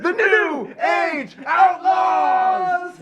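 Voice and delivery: high, slow, booming ring call; announcer shout. Acted. Wrestling entrance shout.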